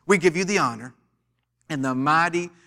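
fervent preacher's prayer, words slowed and stretched. Acted. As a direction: pray over the church, drawing out the phrases. Opening prayer over the church.

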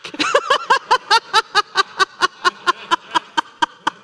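hearty laugh from the pulpit; big laugh. Real, not acted. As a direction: laugh hard at the joke. Laughing at own joke.

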